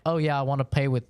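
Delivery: put-on stereotypical Japanese accent. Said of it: "in a stereotypical Japanese accent".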